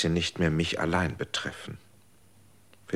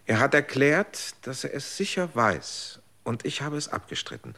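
agitated; 5 semitones higher than usual. Acted. Agitated retelling of chaplain's claim.

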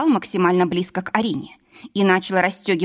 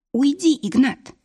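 stubbornly; 7 semitones higher than usual. A narrator's reading. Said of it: "заупрямилась Арина".

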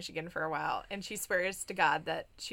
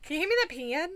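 put-on higher Michigan accent; 7 semitones higher than usual. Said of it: "very much a Michigan accent".

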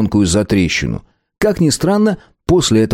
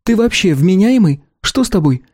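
higher, exasperated woman's voice; indignant female character; 11 semitones higher than usual. A narrator's reading. Clan leader Belka scolding the treacherous shopkeeper, higher.

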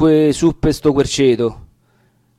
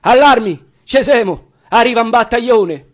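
much higher, loud call to arms; alarm call; 8 semitones higher, 3 dB louder than usual. Acted. Sentry shouting to the hidden men, high alarm call. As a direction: raise the alarm for everyone.

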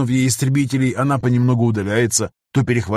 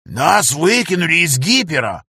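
alarmed; 5 semitones higher, slower than usual. A narrator's reading. Alarm after dropping out.

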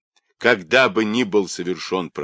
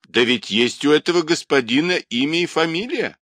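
higher-pitched, indignant retort; angered old woman; 8 semitones higher, 3 dB louder than usual. Acted. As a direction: snap back in rising irritation. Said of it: "рассердилась старуха".

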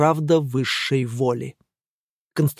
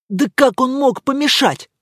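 higher, louder indignant question; raised voice; 8 semitones higher, 3 dB louder than usual. A narrator's reading. Angelika raises her voice at the men, indignant. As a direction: raise your voice in disbelief. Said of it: "повысила голос Анжелика".

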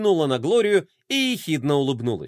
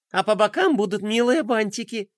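rattling on; 7 semitones higher than usual. Acted. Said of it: "тараторила лунная принцесса".

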